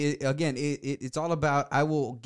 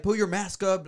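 demanding order, pitched a little up; going off on someone; 3 semitones higher than usual. Acted. Woman at the gas station ordering him, mock going off. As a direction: snap it as a mild mock telling-off. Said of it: "like that, and going off on me".

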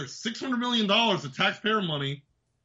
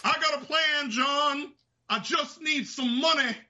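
a hint of a scheming gang leader, slow on the money; lightly voiced outlaw boss pitching his plan; Dutch impression; 5 semitones higher, slower than usual. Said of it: "He is fucking Dutch from Red Dead Redemption".

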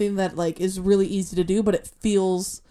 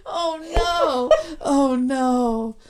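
laughing; 3 semitones higher, much slower than usual. Real, not acted. Recovering from laughing fit.

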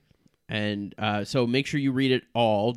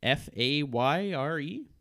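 spelling out; 3 semitones higher, slower than usual. Shown as a demonstration. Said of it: "spelling it out".

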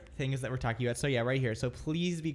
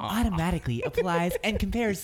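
ad voice; 3 semitones higher, 3 dB louder than usual. Pretend. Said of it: "it sounds like a commercial".

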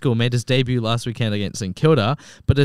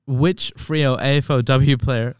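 slow, deliberate repeat of the question; slower than usual. Shown as a demonstration. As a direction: spell the question out slowly. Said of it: "Can you repeat it?".

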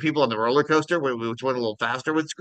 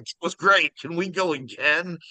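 retold eager kid; 6 semitones higher than usual. Dad voices son after the ride.

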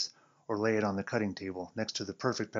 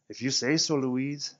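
mocking; 5 semitones higher, 6 dB louder than usual. Joey mocking, louder higher.

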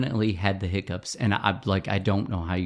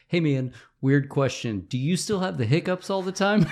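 laughing read-out; 6 semitones higher than usual. Retold or imitated. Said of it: "messaged him on Facebook and said".

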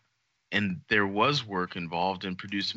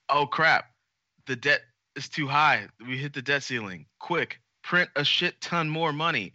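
mock panic; 5 semitones higher than usual. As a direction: play a frantic bureaucrat hitting the debt ceiling. Mock government officials panicking.

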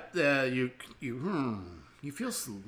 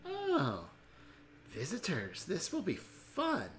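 put-on old woman voice; 3 semitones higher, 8 dB quieter, slower than usual.

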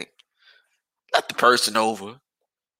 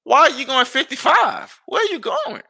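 exasperated yell; 12 semitones higher than usual. Pretend. Driver ranting at a speeding car, high exasperated yell.

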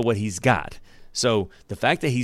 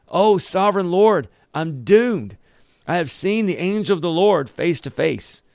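anguished cry; 8 semitones higher than usual. Acted. Gideon crying to God after seeing the angel, high and terrified. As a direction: cry out as if you've seen death coming. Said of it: "he cried out".

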